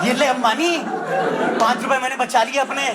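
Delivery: cheeky taunt at a rich man, laughing; mock gloating. Comic tells Ambani he saved five rupees, gloating. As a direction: gloat like you just beat the electricity bill.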